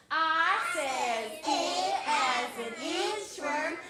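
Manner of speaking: a light cowboy twang on the chant. Shown as a demonstration. Teacher chanting the I sentence cowboy style, lightly. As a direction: chant it like a cowboy, slow and playful. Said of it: "Let's say it like a cowboy".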